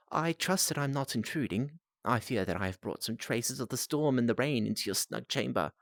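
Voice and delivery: put-on new accent. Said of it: "New accent".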